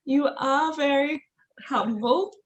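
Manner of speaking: "You are very humble" said slowly, each word spaced; patient, slowed repeat; slow clear repeat. Real, not acted. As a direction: repeat it slowly for a listener who missed it. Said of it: "can you repeat that word?".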